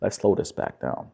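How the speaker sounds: calm, slowing voice. Shown as a demonstration. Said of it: "it's giving her this indirect kind of energy".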